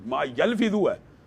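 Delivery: slow, drawn-out stress on یلفظ. Real, not acted. Speaker underlines the Quranic verse for his listeners, یلفظ stretched for emphasis. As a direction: stretch یلفظ out, lifting the pitch on it.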